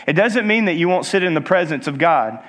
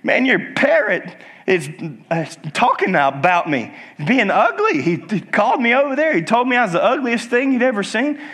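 mildly acted appalled customer, pitched up; higher, hurried, offended complaint; 5 semitones higher than usual. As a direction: complain to the owner in affronted disbelief. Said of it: "he's like, appalled".

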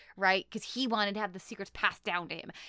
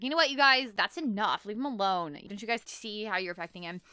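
a touch of a raised upset voice; mock-scold the boys, mildly raised; 3 dB louder than usual. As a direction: assistant shielding the magician from the boys, mild upset. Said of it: "Flora gets really upset".

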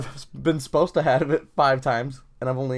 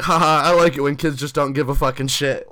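laughing professor; 4 dB louder than usual. Retold or imitated. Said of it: "he was laughing".

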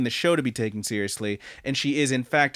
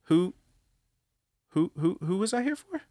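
freaking-out character; 7 semitones higher than usual. Retold or imitated. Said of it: "he just starts freaking out and he's like".

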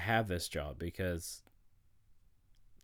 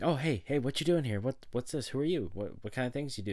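overly showy; 6 semitones higher than usual. Retold or imitated. To the stranger in the studio, mock overeager higher questions. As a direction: gush at the stranger like an overeager fan. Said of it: "overly showy".

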